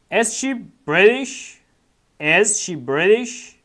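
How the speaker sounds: drawn out with a rising end; very slow model reading. Shown as a demonstration. Teacher modelling the question for students, very slow. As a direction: say it slowly for beginners. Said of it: "teacher models textbook question".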